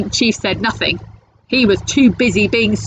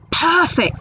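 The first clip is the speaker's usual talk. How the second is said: troll voice; 9 semitones higher than usual. Acted. Troll pleased with his find.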